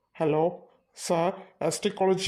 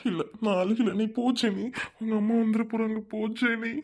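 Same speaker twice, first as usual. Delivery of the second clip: higher-pitched, choked-up urging; tearful denial; 4 semitones higher than usual. Acted. Boy sends girlfriend off before her mother arrives, tearful. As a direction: insist you are not crying while close to tears. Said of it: "ஏய், இப்படி அழுகாத".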